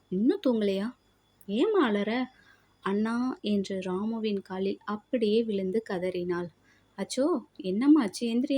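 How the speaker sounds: expressive Tamil storytelling with lightly acted dialogue; story narration. A narrator's reading. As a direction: read it out like an audio story. Reads a story aloud to listeners.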